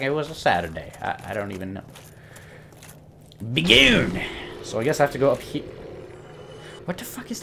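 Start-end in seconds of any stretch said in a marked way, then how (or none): 3.5-4.2 1 mock battle cry. Shouting at enemy in game.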